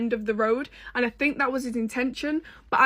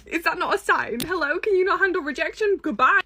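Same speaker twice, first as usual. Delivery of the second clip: sassy brush-off building; 4 semitones higher than usual. Retold or imitated. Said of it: "And I'm like".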